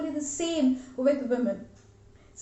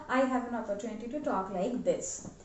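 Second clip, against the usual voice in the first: deep voice; 4 dB quieter than usual. Shown as a demonstration. Coach demonstrating the preferred option to listeners, deep voice. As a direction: drop into a controlled deep voice. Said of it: "I am using a deep voice".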